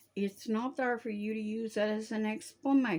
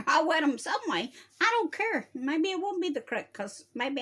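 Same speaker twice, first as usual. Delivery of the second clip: stern scolding; 2 semitones higher, 4 dB louder than usual. Real, not acted. Scolding those who curse.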